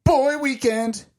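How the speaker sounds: loud, high, slow hype announcement; announcer voice. Acted. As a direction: boom it like a trailer announcer. Announcer-style chant.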